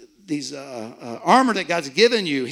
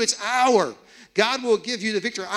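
usual speaking voice

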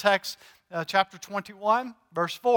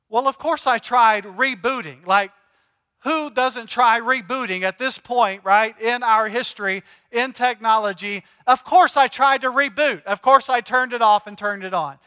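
exasperated; 4 dB louder than usual. Retold or imitated. Exasperated retort to IT support.

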